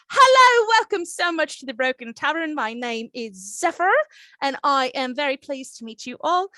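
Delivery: lightly Irish barkeep voice, bright and welcoming; a hint of an Irish lilt, greeting guests; gentle Irish innkeeper welcome; Irish accent. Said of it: "my best attempt at sounding like Aisling Bea".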